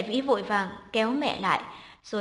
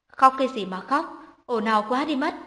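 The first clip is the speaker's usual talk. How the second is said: a touch of a loud, scolding outburst; mother-in-law scolding, mildly raised voice; 4 dB louder than usual. Acted. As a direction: bark it at a crying baby, half-loud. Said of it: "hùng hổ sộc vào phòng ngủ".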